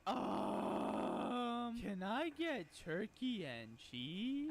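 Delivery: put-on high, hesitant kid voice, very slow; little kid ordering. Mimicking the kid at the counter asking for turkey and cheese, high and halting.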